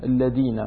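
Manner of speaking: الذين said with a plain d for the dh: "alladina"; mispronounced letter. Shown as a demonstration. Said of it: "قال صراط الذين".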